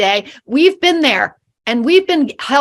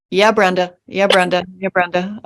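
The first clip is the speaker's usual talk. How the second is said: bored going along; 5 semitones lower than usual. Retold or imitated. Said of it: "everybody is just like".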